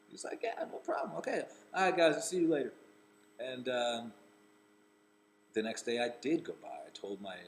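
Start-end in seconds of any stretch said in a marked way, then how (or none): 0.4-2.7 high, airy then loud quick farewell; breezy goodbye. Retold or imitated. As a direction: call it out driving off. Imitating Charlie leaving.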